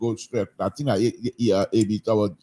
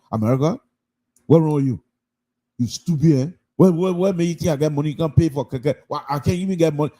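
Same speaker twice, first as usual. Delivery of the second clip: Liberian English rant; 3 semitones higher, faster than usual. Retold or imitated. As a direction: tell off the keke driver in thick Liberian English. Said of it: "went straight to no-go English".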